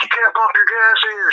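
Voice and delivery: play-acted shrill screaming, very high and furious. Retelling how a girl at a gas station yelled at the speaker, mock-angry screaming. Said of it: "She's screaming at me, like, pissed off".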